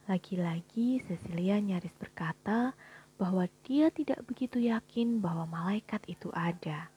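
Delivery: breathy hushed narration; whispered narration. A narrator's reading.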